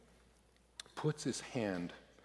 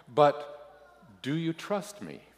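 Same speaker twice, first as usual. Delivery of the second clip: gentle, earnest question lifting in pitch; 5 semitones higher than usual. A narrator's reading. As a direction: ask sincerely, pausing before the question. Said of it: "in a more earnest tone".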